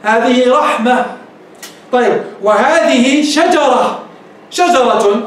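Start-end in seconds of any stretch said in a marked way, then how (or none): 0.0-1.1 هذه رحمة slowly, h audible at the end; clear final ha. Shown as a demonstration. Teacher guards the h from vanishing, slow clear ha. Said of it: "خلها تظهر الهاء". 2.4-4.0 شجرة said slowly, ending on h; pausal ha. Shown as a demonstration. Teacher gives a second example, slow pausal h. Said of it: "قف عليها".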